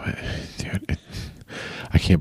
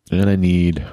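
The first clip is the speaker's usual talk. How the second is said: stuffy nose; 2 semitones higher, 4 dB louder than usual. Real, not acted. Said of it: "why do I sound stuffy all of a sudden".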